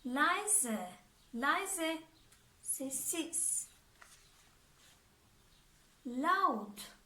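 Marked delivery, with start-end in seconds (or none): 2.6-3.7 a soft unvoiced Sessiz; whispered. Shown as a demonstration. Acts out the meaning of quiet.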